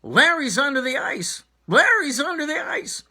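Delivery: high panicked scream; frantic yell for help across the ice. Acted.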